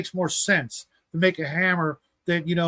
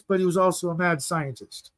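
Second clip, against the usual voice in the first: "mad" leaned on a little; stress on mad. Shown as a demonstration. Host calling Tesla a mad scientist, "mad" stressed. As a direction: lightly lean on the word "mad". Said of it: "I'm emphasizing the word mad".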